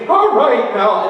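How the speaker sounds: imitating a nervous pastor; mock quavering announcement; shaking voice. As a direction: wobble it as if unnerved by the crowd. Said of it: "and his voice was shaking".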